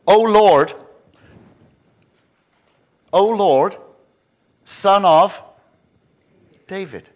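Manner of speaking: loud drawn-out cry of O Lord. Acted. Preacher voicing the woman crying out to Jesus, desperate. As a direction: call out to him desperately.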